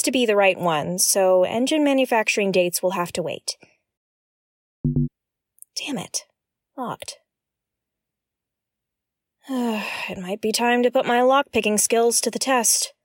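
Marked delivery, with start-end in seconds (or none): 5.8-7.2 muttered curse. Real, not acted. Finds the door locked.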